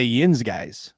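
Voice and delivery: "yins guys" as Pittsburghers say it; "yins guys" with a Pittsburgh twang. Shown as a demonstration. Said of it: "Pittsburgh people say".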